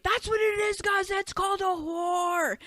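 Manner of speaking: put-on loud, high kid announcing it to everyone; imitated child's scream. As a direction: yell it like a child informing the other kids. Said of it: "Screaming it, telling the other children".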